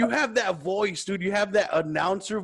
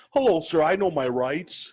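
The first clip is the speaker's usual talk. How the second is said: mock-proper greeting, louder start; fake polite voice; 4 dB louder than usual. Shown as a demonstration. Driver telling officer his rights, fake polite voice. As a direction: play the courteous driver. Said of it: "I have a fake voice too".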